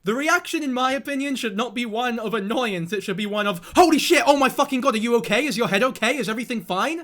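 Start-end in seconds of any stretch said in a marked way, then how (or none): 3.8-7.0 mock panic. Streamer acting a parent's panic over a fallen baby. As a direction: blurt it out in shock for the baby. Acting the proper worried reaction.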